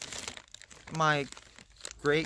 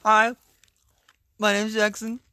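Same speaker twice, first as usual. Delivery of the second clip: put-on voice; 7 semitones higher, 7 dB louder than usual. Mock introduction in put-on voice.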